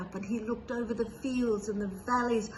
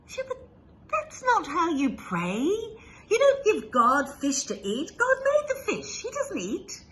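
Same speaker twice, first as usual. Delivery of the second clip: high, laughing scholar scoffing; mocking laugh; 9 semitones higher, 5 dB louder than usual. A narrator's reading. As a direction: laugh down at the simple prayer. Scholar mocks the shepherd's prayer.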